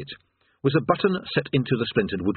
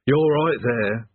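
mournful; slower than usual. Acted. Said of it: "said the demon mournfully".

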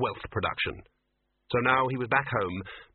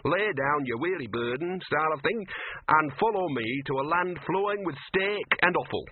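big dog voice; 5 semitones higher than usual. Retold or imitated. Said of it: "big dog that says".

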